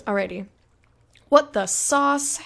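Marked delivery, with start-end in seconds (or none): 1.3-2.4 slow, louder, drawn-out "What the sauce?"; playful catchphrase. Pretend. Streamer greeting a chatter by name, playful drawl. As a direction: savour the silly phrase. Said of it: "It's fun to say".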